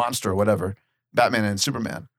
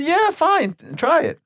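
imitating a friend; 3 dB louder, slower than usual. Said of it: "You said".

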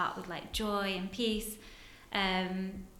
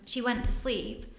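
usual speaking voice

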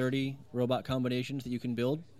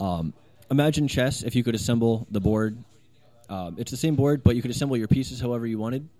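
loud, close-to-mic booming delivery; 7 dB louder than usual. Real, not acted. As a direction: keep booming into the microphone. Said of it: "Booming voice".

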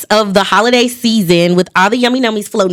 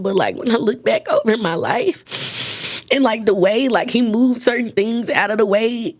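tearful; 6 dB quieter than usual. Real, not acted. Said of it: "I don't know why I'm crying".

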